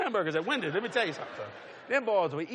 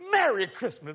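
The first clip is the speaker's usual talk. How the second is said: delighted greeting; 6 dB louder, slower than usual. Retold or imitated. Acting cashier's delighted holiday greeting.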